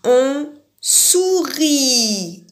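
slow and smiling. Shown as a demonstration. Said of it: "Vous vous souvenez".

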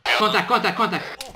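urgent loud callout; shouted callout. Acted. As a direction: yell contact to the squad. Calling out enemy contact.

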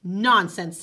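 firm. Acted. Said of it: "said the Great Spirit".

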